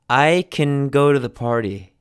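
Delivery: CAN shrunk to "kun", stress on the other words; teacher's model of CAN said as "kun"; unstressed can. Shown as a demonstration. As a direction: reduce CAN to a weak schwa "kun". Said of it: "this sounds like kun".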